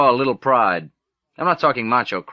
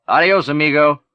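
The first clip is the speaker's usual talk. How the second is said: louder, playful fake Mexican accent; 3 semitones higher, 4 dB louder than usual. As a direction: tease in a hammy Mexican accent. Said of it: "Teddy said in his fake Mexican accent".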